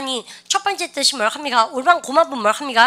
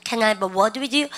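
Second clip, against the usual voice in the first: slow repeat; much slower than usual. Shown as a demonstration. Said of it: "아시죠?".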